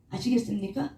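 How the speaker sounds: normal talking voice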